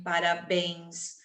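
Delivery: slow, careful parabéns; slow example word. Shown as a demonstration. ("parabéns" bem devagar)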